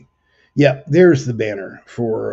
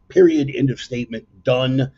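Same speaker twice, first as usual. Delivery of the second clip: emphatic declaration; 4 semitones higher, 5 dB louder than usual. Real, not acted. Insisting his barbecue is the best.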